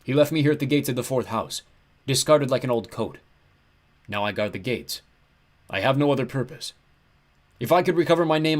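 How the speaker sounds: big, mournful ram-god lament; like a huge lost sheep; horribly depressed. A narrator's reading. Ram god abandoned at the gates, depressed. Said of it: "He sounded horribly depressed".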